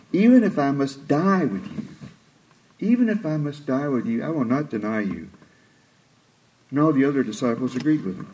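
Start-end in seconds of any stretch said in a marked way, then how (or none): 0.1-1.8 scoffing. Retold or imitated. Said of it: "I can almost hear the scoffing in his voice". 2.8-5.3 mild scoffing repeat, trailing softer; lightly scoffing boast, fading off. Retold or imitated. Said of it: "I can almost hear the scoffing in his voice".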